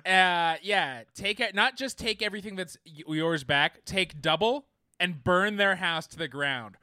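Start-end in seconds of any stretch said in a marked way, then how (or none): 1.5-6.8 rousing call to rise up; fiery revolutionary speech. Pretend. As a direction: shout it like a rebel leader. Rallying listeners to revolt.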